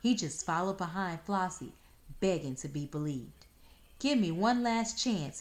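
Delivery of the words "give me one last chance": higher, louder plea; pleaded. Acted. Fox begging Flossie for one last chance, pleading. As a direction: beg her for one more try. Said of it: "he pleaded".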